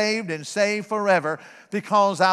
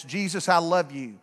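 simple prayer; 4 semitones lower than usual. Retold or imitated. Preacher recalls his childhood prayer to Jesus, low simple praying. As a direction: pray simply, low and restrained. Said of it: "praying a very simple prayer".

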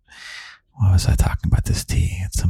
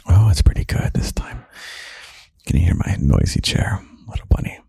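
whispered ASMR podcast, close to the ear; intimate whisper. Real, not acted. Host alone with little bunny late at night, whispering.

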